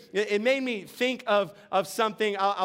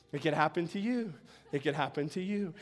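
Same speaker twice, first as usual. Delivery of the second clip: softer and lower, fading warning; spooky echo; 6 semitones lower, 7 dB quieter, faster than usual. Acted. Preacher echoing the owl's warning to the congregation, softly fading. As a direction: let the warning fade away eerily.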